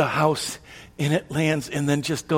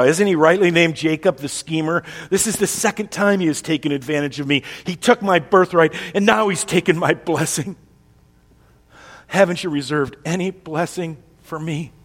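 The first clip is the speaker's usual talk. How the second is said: anger; 3 semitones higher, 4 dB louder than usual. Acted. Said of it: "now we see some anger from Esau".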